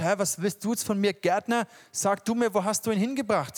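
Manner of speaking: fast, puzzled, lightly acted Maria; a touch of bewildered impatience toward the gardener; confused. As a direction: Maria half-turning, mildly confused, to the gardener. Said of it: "so verwirrt".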